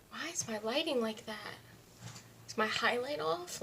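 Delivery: whisper. Real, not acted. Whispered puzzlement about lighting.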